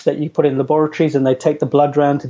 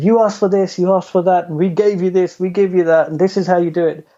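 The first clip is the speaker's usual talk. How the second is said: a cheeky, showy presenter's pitch, a bit higher; tongue-in-cheek; 3 semitones higher than usual. Retold or imitated. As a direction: flippant and pleased with himself, playing to the room. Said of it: "quite tongue-in-cheek".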